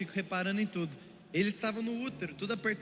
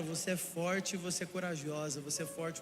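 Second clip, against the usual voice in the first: softer and softer, tender reassurance; gentle encouragement; 3 semitones lower, 5 dB quieter than usual. Retold or imitated. A husband softly encouraging his wife through labor. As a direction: ease her through it with quiet strength.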